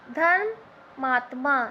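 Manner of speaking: slow word demo. Shown as a demonstration. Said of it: "धर्मात्मा में क्या है?".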